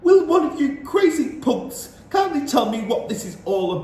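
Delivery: put-on fed-up boy shouting at witches. A narrator's reading. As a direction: yell it at the crazy crowd. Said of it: "shouted Bruno".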